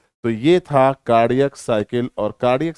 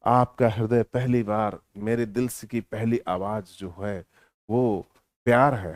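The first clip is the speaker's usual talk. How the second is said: mock filmy director; 3 semitones lower, 4 dB quieter than usual. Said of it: "D grade के फिल्मों के director".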